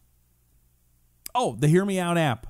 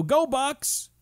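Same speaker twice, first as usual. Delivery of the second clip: cheer; 12 semitones higher than usual. Pretend. Sports cheer.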